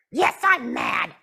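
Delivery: pouting puppet. Acted. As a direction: stretch out the sulk. Puppet Jasmine angry.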